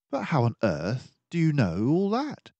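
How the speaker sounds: a friendly doctor mouse musing aloud; Dawson the narrator mouse. Acted. Dawson amazed.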